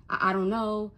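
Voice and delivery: retold stammering confusion; imitating her own mild stutter; flustered stutter. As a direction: trip lightly on the first word. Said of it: "I stutter and shit".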